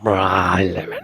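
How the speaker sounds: low Bristol accent imitation. Copying the Bristol man's voice from the clip, in a low Bristol accent. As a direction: copy his Bristol voice. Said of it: "he even has the gravel".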